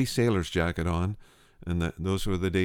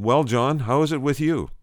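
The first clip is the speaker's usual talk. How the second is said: retold hearty hail, higher and louder; hearty greeting; 6 semitones higher, 5 dB louder than usual. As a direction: greet a friend back in harbor, voice lifted. Hailing a friend at harbor.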